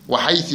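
"وحيث" ending in a short i, wa-haythi; kasra ending. Shown as a demonstration. Teacher reads the rule to students, kasra ending on "وحيث". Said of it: "بالكسر".

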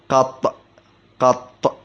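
قط with the ط held and doubled; doubled final ط. Shown as a demonstration. Teacher demonstrating the spelling, قط with a doubled final ط. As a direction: close قط hard on a doubled ط. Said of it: "وتشديد الطاء".

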